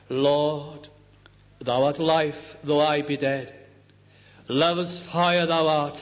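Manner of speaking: slow, solemn hymn recitation; recited hymn. Shown as a demonstration. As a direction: read each line slowly, like a sacred poem. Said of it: "Listen to this hymn again".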